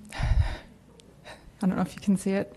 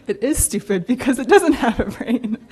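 put-on laughing through a little kid's logic; laughing childish retort; 2 semitones higher, 4 dB louder than usual. Granddaughter recalls her confused little self, laughing. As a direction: giggle out the child's comeback.

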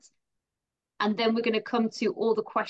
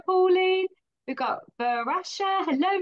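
ordinary delivery

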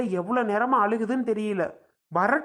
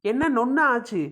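irritated, mildly raised retort; angry scolding; 2 semitones higher than usual. Acted. Husband to wife who left the baby, scolding. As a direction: snap back at her, cross and accusing.

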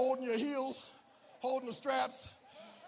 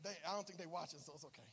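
hushed aside; 5 semitones lower, 8 dB quieter, faster than usual. Real, not acted. Pastor confiding to the congregation, hushed and low. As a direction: drop low and soft, half to himself. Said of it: "I never told this story publicly".

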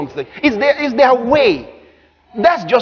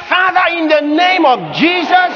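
praying; 7 semitones higher than usual. Acted. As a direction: imitate someone pleading in prayer. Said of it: "Until you stop praying like that".

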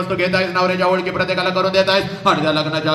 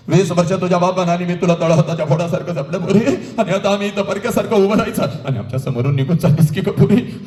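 acted tearful plea, voice catching; mother's lament. Mother to departing bride, acted lament. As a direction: plead like a mother losing her daughter. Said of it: "तुझी आई तुला म्हणते".

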